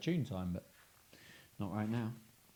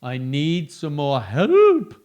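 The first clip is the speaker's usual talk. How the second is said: ghost asking for help; 13 dB louder, much slower than usual. Acted. Ghost asking for help, ghostly plea. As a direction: plead like a ghost. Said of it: "said the ghost".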